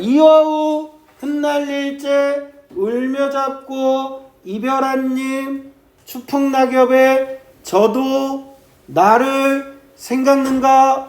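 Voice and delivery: slow sijo recital, evenly spaced feet; measured verse reading. Shown as a demonstration. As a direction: linger on "저도" and "나를", pausing after each. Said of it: "식으로 읽어야 된단 말이죠".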